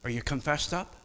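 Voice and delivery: God quietly checking on a believer; soft voice of God. Acted. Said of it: "God says".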